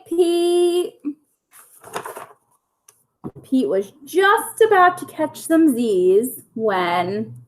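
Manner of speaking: lively bedtime story reading; reading to children. A narrator's reading. Teacher reading a bedtime story to her pupils, lively storytelling. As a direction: read it like a picture book for little kids. Reads picture book aloud to kids.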